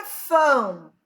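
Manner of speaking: ÓRFÃO with a long, stretched ÓR; stress on ÓR. Shown as a demonstration. Teacher showing the strong syllable, Órfão with ÓR drawn out. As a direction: lean hard and long on the ÓR of Órfão. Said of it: "falada com maior intensidade, mais forte, é o or".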